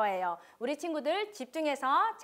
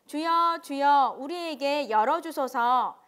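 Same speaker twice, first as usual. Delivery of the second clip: loud pleading; 6 dB louder, slower than usual. Acted. Shut-out virgins plead at door.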